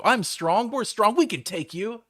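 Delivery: high, loud mock battle cry; a mock hero shouting his boasts; hammed-up bravado. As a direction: pump yourself up, overblown and silly. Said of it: "I'm like".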